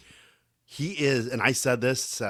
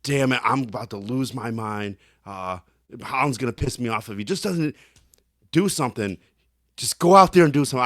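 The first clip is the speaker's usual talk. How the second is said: mild exasperation building to louder, faster outburst; retold frustration; 4 dB louder than usual. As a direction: imitate a teammate losing patience. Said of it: "he was getting frustrated too".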